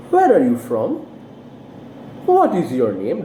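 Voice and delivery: FROM and NAME sliding down; falling intonation. Shown as a demonstration. Teacher models information questions, falling intonation. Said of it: "falling intonation makes you fall down".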